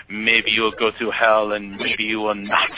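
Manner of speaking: slow, imitated Egyptian cabbie accent; drawn-out verdict in a mock foreign accent; Hussein. Cabbie judging his Catholic passenger, slow imitated accent. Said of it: "I guess I'm still doing Hussein".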